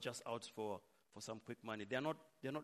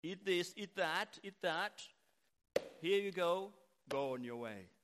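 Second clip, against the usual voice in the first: higher, louder matter-of-fact adviser; brisk nutritionist; 4 semitones higher, 5 dB louder than usual. Acted. Nutritionist advising a slightly overweight client, brisk instructions. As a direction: reel off diet orders like a busy nutritionist. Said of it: "you go to a nutritionist, they tell you".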